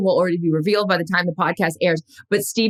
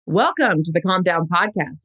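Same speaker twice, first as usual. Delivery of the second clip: relaxed host read. Shown as a demonstration. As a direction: let it out, then read. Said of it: "so let me try it with".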